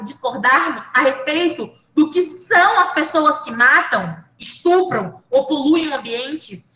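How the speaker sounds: measured, deliberate reading of a quoted passage; reading a book aloud. Acted. Reads Marshall's book aloud.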